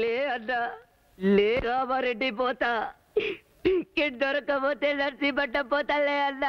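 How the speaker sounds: whining, crying plea; tearful pleading. Acted. Man tearfully pleads with an elder brother figure to let go, crying. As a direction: beg through tears. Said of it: "ఏడుస్తావు ఎందుకు?".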